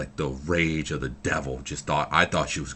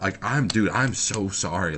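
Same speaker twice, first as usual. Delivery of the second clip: higher-pitched flustered apology; retold panic; 4 semitones higher, 4 dB louder than usual. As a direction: act out a mildly panicked, pleading apology. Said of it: "I'm panicking. I'm freaking out".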